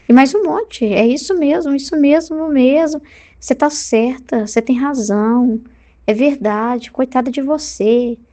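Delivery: fast, fawning little voice that agrees with everything; flattering devil's voice. Retold or imitated. Devil whispering agreement to a hurt churchgoer, fawning. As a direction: coax and flatter like the devil stroking her ego. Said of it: "É aquela vozinha que vai ficar concordando com o seu ego".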